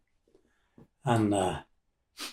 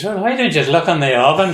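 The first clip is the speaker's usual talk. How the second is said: louder, higher, quick retort; bold retold challenge; 6 semitones higher, 8 dB louder, faster than usual. Aunt to the searching Black and Tans, bold and loud. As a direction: act out a brazen dare, raised voice.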